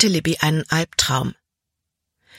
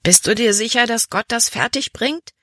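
doubtful; 6 semitones higher than usual. A narrator's reading. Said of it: "bezweifelte sie".

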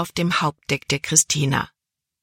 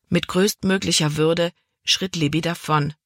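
ordinary delivery

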